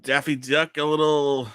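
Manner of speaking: put-on muddled Australian and New Zealand accent; put-on Australian-ish accent. Host puzzles over his own voice in a put-on Australian accent. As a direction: muse aloud in a wobbly Australian accent. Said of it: "It's a bit of accents".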